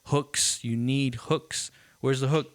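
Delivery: mildly pushy retold demand for hooks; insistent demand. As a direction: imitate a producer drumming it in. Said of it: "he would just shove that down their throats".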